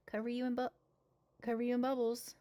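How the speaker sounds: put-on sing-song baby talk to a little one; playful parent voice for bath time.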